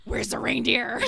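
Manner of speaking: loud, high frantic demand; crazy voice. Retold or imitated. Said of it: "And then my mom goes".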